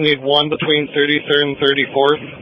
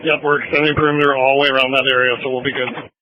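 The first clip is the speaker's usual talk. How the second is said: police radio. Real, not acted. Whole scanner recording is radio chatter.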